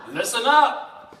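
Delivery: slow and drawn out, with a laugh; listen up, stretched slowly for the crowd; slow emphatic call-back. Shown as a demonstration. Preacher to congregation, slow laughing call-back. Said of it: "So do what?".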